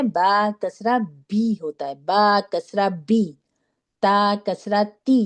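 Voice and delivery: slow drill, "بی" and "تی" end in a long clean ee; clear ee ending. Shown as a demonstration. Teacher drilling students on kasra, slowly with a clear ee. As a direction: say "بی، تی" with a clear ee, never ay. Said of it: "ای کی sound آئے گی آخر میں".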